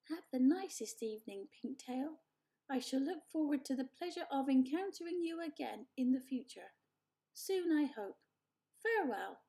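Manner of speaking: stiffly polite, overly formal robot; friendly robot voice. Acted. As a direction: try hard to sound friendly.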